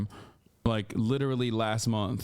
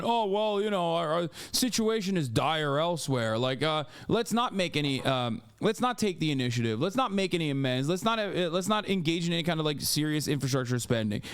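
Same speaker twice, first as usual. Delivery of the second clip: higher, sing-song parody of a hand-wringing American; whiny mock complainer; 3 semitones higher than usual. Streamer parodying Americans' excuses to chat, mocking lilt. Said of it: "constantly fucking going".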